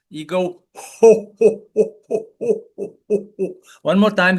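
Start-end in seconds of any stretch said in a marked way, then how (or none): 0.7-3.5 jolly ho ho ho; Santa Claus laugh. Shown as a demonstration. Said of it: "laugh like Santa Claus".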